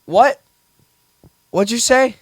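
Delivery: baffled what. Retold or imitated. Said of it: "confused cashier mishearing a customer".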